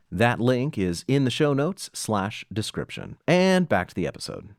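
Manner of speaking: bright host pitch for the Patreon, lifted and friendly; upbeat promo read. Acted. Host breaking in mid-episode to plug the Patreon, upbeat promo read. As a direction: sell the patron perks like a podcast host.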